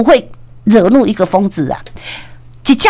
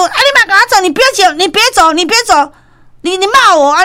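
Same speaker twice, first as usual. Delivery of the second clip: angry pleading; 9 semitones higher than usual. Retold or imitated. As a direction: chase them down, furious. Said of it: "就是很生气". (生气地追着喊别走)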